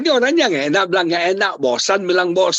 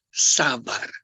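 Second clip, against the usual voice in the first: low, soft, self-calming repetition; calming breath; 4 semitones lower, 4 dB quieter, much slower than usual. Shown as a demonstration. Preacher coaching husbands to breathe, calming demonstration. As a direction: let each word settle on an exhale. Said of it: "tarik nafas bilang".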